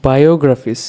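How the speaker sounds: বায়োগ্রাফিস with weight on গ্রাফ; stress on গ্রাফ. Shown as a demonstration. Teacher demonstrating stressed syllables, বায়োগ্রাফিস stressed on গ্রাফ. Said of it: "এখানে গ্রাফ হচ্ছে".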